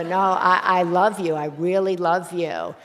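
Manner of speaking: insisting over her brush-off, refusing to let it drop; insistent I love you. Retold or imitated. Son pressing his love on his brushing-off mother, loud and insistent.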